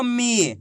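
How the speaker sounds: मी held long, then dropping; drawn-out long ī. Shown as a demonstration. Teacher reading syllables for class to copy, drawn out. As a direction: stretch out मी. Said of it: "खींच के पढ़ेंगे".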